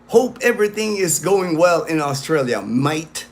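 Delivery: lightly put-on Australian accent; little Australian accent. Shown as a demonstration. Vlogger greeting a friend in Sydney, light Australian accent. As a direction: try a bit of an Australian accent. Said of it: "kinda like my little, uh, Australian accent".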